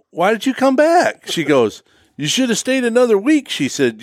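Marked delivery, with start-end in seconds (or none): 0.1-1.3 high, incredulous wife voice; wife asking why he came home; mock nagging wife. Wife scolding retold. 2.2-3.5 high, chiding wife voice; wife telling him to stay longer; mock wife scolding.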